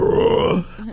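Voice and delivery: mock enraged growl; drawn-out beastly grunt, imitating a berserk brawler; imitated growl. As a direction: growl like a bear gone crazy.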